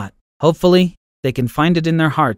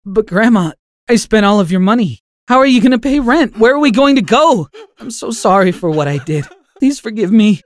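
high, loud, tearful questions; tearful pleading; 7 semitones higher, 4 dB louder than usual. Acted. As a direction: plead through tears, panicking. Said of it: "mumbling through my tears".

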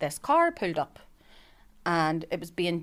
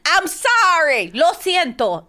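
laughing apology; 10 semitones higher, 9 dB louder, much slower than usual. Pretend. Mock apology through laughter.

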